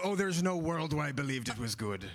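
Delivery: high, loud Cornish pirate; jokey high-pitched pirate voice. Shown as a demonstration. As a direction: protest in a put-on pirate voice. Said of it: "It was a bit like this".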